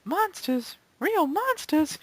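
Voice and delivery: hammed-up surprised squeak; mock alarm. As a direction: feign shock at the word monsters. Mock alarm at monster cards.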